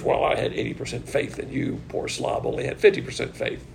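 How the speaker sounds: hushed, unvoiced smug do-gooder; whispered mock of a boasting believer. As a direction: sneer it like a self-satisfied do-gooder.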